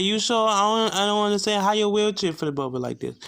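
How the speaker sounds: high-pitched, puzzled questioning; disbelieving nurse. Retold or imitated. Nurse doubts the patient's explanation, disbelieving.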